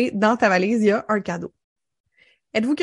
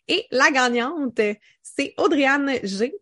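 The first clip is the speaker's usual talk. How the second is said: annonce de gagnante; 3 semitones higher, slower than usual. Real, not acted.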